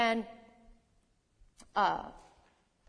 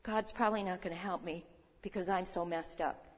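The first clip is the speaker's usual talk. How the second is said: mock self-pity; 3 semitones lower, 6 dB quieter than usual. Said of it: "we go to God like this".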